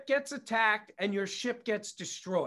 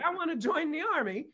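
put-on Austrian accent; 7 semitones higher, faster than usual. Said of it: "Spoke with the same accent the Nazis had".

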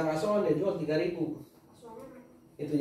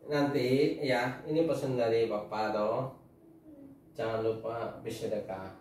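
solemn advice; 3 semitones lower, slower than usual. Real, not acted. Father giving solemn advice.

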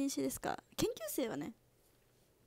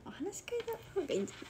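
whisper; 5 semitones higher, 4 dB quieter, much faster than usual. Real, not acted. Quick whispered aside.

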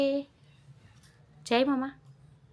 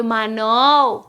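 slow, lower, stretched-out name; drawn-out prompt; 4 semitones lower, much slower than usual. Shown as a demonstration. Parent teaching toddler a cousin's name, drawn out. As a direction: stretch the name out for a child to copy.

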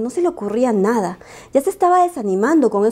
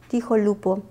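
usual speaking voice

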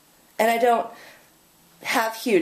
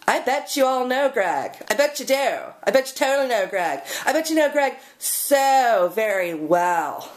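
sarcastic insinuation; 3 semitones higher than usual. Acted. Sarcastic jab about Greg.

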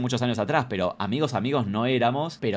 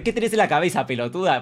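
raised, higher-pitched exasperated telling-off; scolding; 5 semitones higher, 5 dB louder than usual. Retold or imitated. Comedian to an interrupting fan, loud scolding. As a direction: tell them off loudly, in disbelief. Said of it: "lo estoy tratando re".

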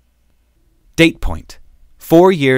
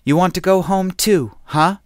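mocking; 7 semitones higher than usual. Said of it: "she asked him".

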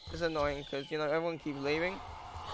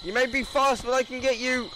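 menacing taunt; 6 semitones higher, faster than usual. Pretend. Taunting the fleeing player.

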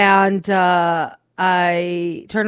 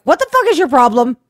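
louder, higher irritated snap; annoyed outburst; 7 semitones higher, 6 dB louder, faster than usual. Retold or imitated. Husband woken by his wife's huffing, annoyed snap. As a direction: woken up and fed up.

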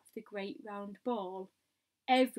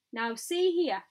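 louder, firm call for attention; commanding shout; 3 semitones higher, 7 dB louder than usual. A narrator's reading. Police chief shouting up to the peach, commanding shout. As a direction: demand their attention. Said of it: "shouted the chief of police".

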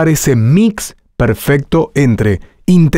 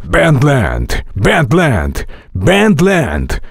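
varied pitch, same timbre; much slower than usual. Shown as a demonstration. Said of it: "No importa si subes o bajas".

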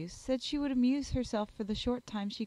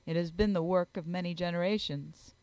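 a touch lower, sober gentleman; lightly voiced grave Darcy; 3 semitones lower than usual. Darcy replying to praise of his library, mildly grave. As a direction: answer with mild gravity, pitched down.

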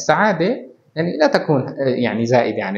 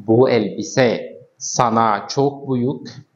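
slow wrong version; much slower than usual. Shown as a demonstration. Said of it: "ما فينا نقول".

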